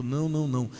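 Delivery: ordinary delivery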